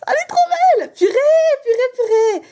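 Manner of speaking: overjoyed at the card; delighted. Real, not acted. Pulling a beautiful card. (cri d'émerveillement très aigu)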